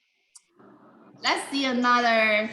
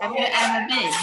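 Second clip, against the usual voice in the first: falling-tone question; falling tone demo; 3 semitones higher, 5 dB louder than usual. Shown as a demonstration. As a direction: Have you ever been? with a louder falling end on been. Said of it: "the question has a falling tone".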